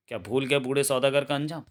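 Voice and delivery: forceful reproachful question, mildly acted; stern accusation. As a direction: confront him with his crime. Hero accuses the bandit. (सख़्त, आरोप भरा सवाल)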